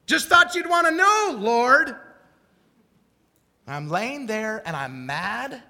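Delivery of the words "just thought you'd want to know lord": sarcastic little aside to the Lord, loud and high; mock reminding God. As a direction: needle God with a pointed reminder. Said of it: "debate with the Lord like this".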